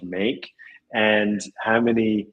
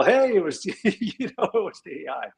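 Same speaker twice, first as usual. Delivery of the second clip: mock excuse; 7 semitones higher than usual. Joking excuse, blaming the AI.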